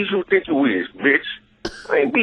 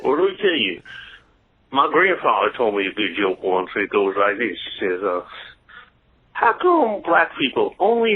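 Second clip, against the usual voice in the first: racist white guy; 4 semitones lower than usual. Acted. Caller plays a racist white guy for the host, lower voice. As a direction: lower folksy bigot voice. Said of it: "Generic racist white guy".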